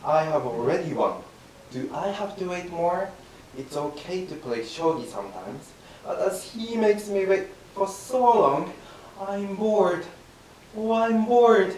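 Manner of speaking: the proper calm, bored take. Acted. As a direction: say it at an easy, unhurried pace. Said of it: "do just like this".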